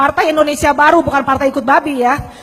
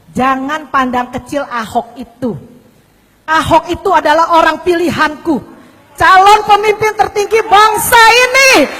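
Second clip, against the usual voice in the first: retold divine voice. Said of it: "dorongan suara yang berkata".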